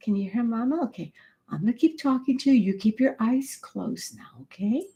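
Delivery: hushed, very low, soft murmur. Demonstrating how a parent talks to a sleeping child, in a very low voice. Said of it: "talk in a very low voice".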